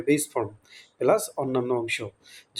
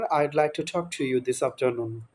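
very slow and softer, each word spaced out; slow clear model sentence; 4 dB quieter, much slower than usual. Shown as a demonstration. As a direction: spell it out slowly for learners to copy. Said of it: "তাহলে কিভাবে বলতে পারেন?". (ধীরে, স্পষ্ট করে শেখানোর ভঙ্গিতে)

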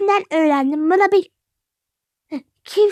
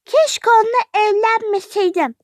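fed up. Acted. Young wife complains about her husband.

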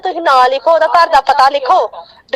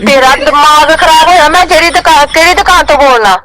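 angry scolding; 6 dB louder than usual. Real, not acted. Angry woman disputes prank debt call.

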